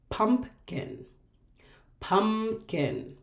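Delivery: "pumpkin" split as pump-kin; syllable by syllable. Shown as a demonstration. Teacher introducing a two-syllable word, broken in two. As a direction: hold "pump", then place "kin" separately. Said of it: "We can clap out".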